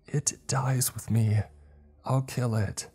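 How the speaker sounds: high, slow anguished resolve; distraught. Acted. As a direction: vow it through acted anguish. Wounded Milo, still distraught.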